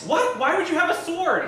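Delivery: high startled question; shocked. Acted. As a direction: squeal it in disbelief. Shocked at sudden sword.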